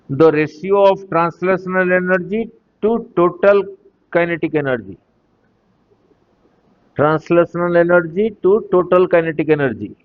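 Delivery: slow, spaced-out reading of a question; slow dictation. Real, not acted. Teacher reading out the energy ratio question, slow dictation. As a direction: dictate it phrase by phrase, unhurried. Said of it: "धीरे धीरे बोल रहा हूँ".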